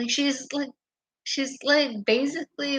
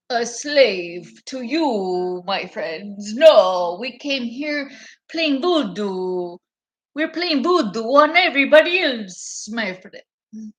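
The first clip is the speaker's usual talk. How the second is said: slow, theatrical mocking imitation; lightly hammed-up orator; mock speech voice; 4 dB louder than usual. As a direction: parody a grand declaration. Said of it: "That's my voice".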